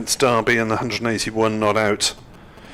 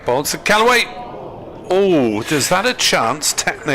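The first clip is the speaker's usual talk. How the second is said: surprised; 5 semitones higher than usual. Real, not acted. Sudden edge, possible chance.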